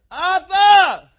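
high mock shout for a cab; hailing a cabbie. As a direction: holler the driver's name, drawn up high. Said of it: "the cabbie from the airport".

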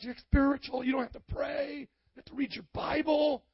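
lightly voiced devil, rising to a mock shout; tempting devil. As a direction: egg him on like a sly tempter. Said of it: "That's how the devil talks".

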